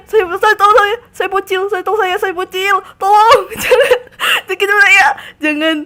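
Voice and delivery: loud frantic pleading through laughter; loud mock-desperate pleading with laughs; laughing panic. Real, not acted. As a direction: beg them not to attack, half laughing half crying. Pleading with attacking creatures.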